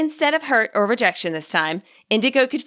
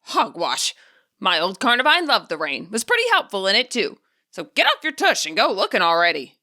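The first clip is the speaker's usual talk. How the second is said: put-on huffy old man. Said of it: "The elderly voice gave a huff".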